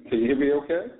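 echoey speakerphone in small room; talking on speaker, roomy echo. Real, not acted. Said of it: "Sounds like you got an echo".

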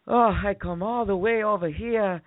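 high, put-on complaining voice; mock a whiny man, pitched well up; high imitated whine, trailing away unfinished; whining date. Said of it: "Why is he whining?".

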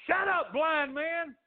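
high, drawn-out mean shout; acted nasty crowd shout; ugly rebuke. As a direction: yell harshly to silence the beggar. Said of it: "They were ugly to him".

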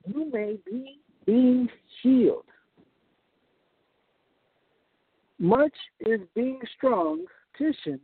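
slow, measured reading of the verse; reading slowly. Shown as a demonstration. Preacher finishes the literal verse for listeners, slowly. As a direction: let each phrase land slowly. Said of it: "I'm gonna read this slowly".

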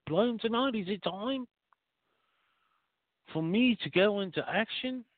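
high, eager little sidekick voice asking the boss; squeaky eager underling pleading with his boss; talking penis voice. Acted. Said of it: "penis perks up and he goes".

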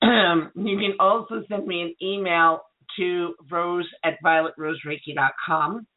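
strained voice, clearing the throat; hoarse voice. Real, not acted. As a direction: talk past a scratchy throat. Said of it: "I'm losing my voice".

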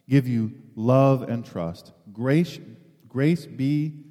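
steady, fuller public reading of a letter; scripture reading. Acted. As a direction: read it out to the congregation with weight. Reads scripture passage aloud.

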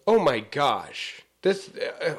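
put-on slow, drawn-out Valley girl gasp; slow ditzy "Oh my gosh". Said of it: "You sound like a Valley girl now".

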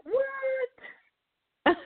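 very high, drawn-out "What?"; astonished what. Retold or imitated. Daughter-in-law meeting the aunt dressed as a French maid, astonished. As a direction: stretch it out in utter disbelief.

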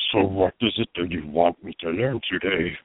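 lightly deepened orc villain; calm, menacing mage villain; Scorch voice. Acted. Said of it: "Scorch would speak to you a little bit more like this".

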